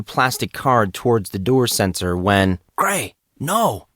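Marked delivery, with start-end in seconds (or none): 2.8-3.9 urgent shout. Acted. Casey stops Monson urgently.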